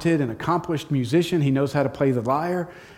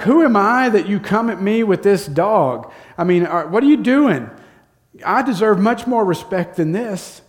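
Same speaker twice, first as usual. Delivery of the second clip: higher, indignant mock taunt; mocking, insulted; 4 semitones higher than usual. Goliath insulted by the boy sent to fight him, mocking. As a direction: play an insulted giant scoffing, pitched up. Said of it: "starts mocking David".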